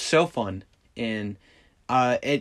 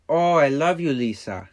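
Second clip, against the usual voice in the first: Johnny voice; 2 semitones higher, 3 dB louder than usual. Retold or imitated. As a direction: imitate Johnny's strange way of talking. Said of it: "he talks like that".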